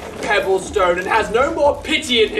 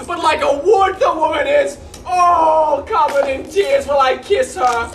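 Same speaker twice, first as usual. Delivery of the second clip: raised, mock-tearful farewell; comic mock lament; hammed-up grief; 2 semitones higher than usual. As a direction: overplay the tearful goodbye. Acting kissing weeping family.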